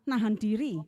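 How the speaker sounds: imitating a lady scolding her; a hint of an annoyed church lady; retold scolding. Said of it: "Katanya gitu".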